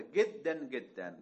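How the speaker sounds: گدن said with a hard g in place of j; Egyptian g for j. Retold or imitated. Teacher repeats the Egyptian sheikh's گدن with g. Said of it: "مصری ها گاف ده".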